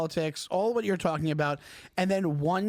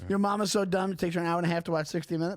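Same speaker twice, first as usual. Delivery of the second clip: yo mama joke; faster than usual. Shown as a demonstration. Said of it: "your yo mama joke".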